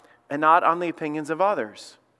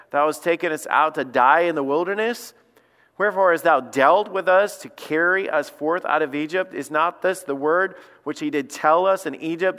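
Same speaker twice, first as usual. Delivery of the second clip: sarcastic reading; 3 semitones lower than usual. Shown as a demonstration. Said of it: "Listen to the sarcasm here".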